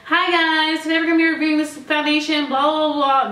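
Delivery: high, bright, fast intro voice; YouTuber intro voice. Retold or imitated. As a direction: rattle it off like a formal review. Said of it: "very, like, informative".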